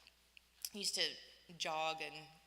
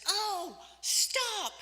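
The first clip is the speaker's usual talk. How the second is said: high, loud sudden cry of stop; sharp stop; 14 semitones higher, 10 dB louder than usual. Retold or imitated. Mean piano teacher cutting off her student, sharp loud stop.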